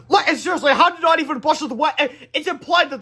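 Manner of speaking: high, loud laughing disbelief; incredulous aside. Real, not acted. Reader mocking the story's logic, laughing disbelief. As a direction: scoff at the plot. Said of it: "reader mocks story".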